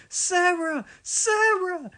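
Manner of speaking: high, loud call across a field; yelling. A narrator's reading. James calling his sister to the river, loud yell. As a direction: shout her name from afar. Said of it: "yelled James".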